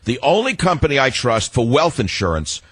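sponsor ad read. Acted. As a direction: pitch the sponsor, slowing on the phone number. Reads sponsor ad.

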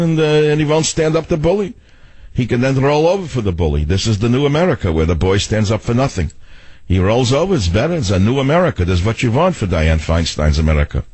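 lightly put-on Seltzer-like doctor voice; hint of a comic doctor pronouncing his verdict; Doctor and Savage character. Mock doctor explaining the new America, lightly put-on voice. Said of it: "a bit, bit of the Seltzer-like voice".

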